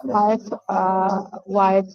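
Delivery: muffled, like speaking into a cup; talking into a cup. Real, not acted. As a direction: voice boxed in by a cup. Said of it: "please stop talking into a cup".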